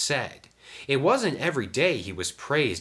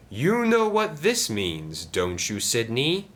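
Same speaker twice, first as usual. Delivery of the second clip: slow, pointed, higher question; scheming Diesel; 5 semitones higher, 3 dB louder than usual. Acted. Diesel checks that Sidney understands, pointedly. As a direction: nudge an accomplice knowingly.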